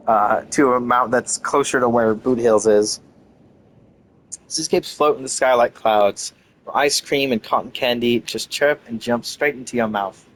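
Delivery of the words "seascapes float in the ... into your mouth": measured, theatrical character read; lightly acted game dialogue; dramatic game dialogue reading. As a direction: read it like a wistful forgotten stage star.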